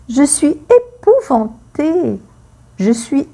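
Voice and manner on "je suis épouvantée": acted terror. Shown as a demonstration. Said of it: "La peur".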